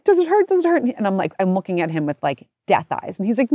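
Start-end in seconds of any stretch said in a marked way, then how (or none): 0.0-0.8 imitating young daughter. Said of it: "And Penelope's like".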